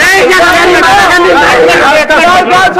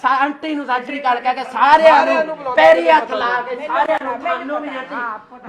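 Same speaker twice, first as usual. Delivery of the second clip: soft, far off; 4 semitones lower, 10 dB quieter than usual. Real, not acted. Young man greeting elders after giving in.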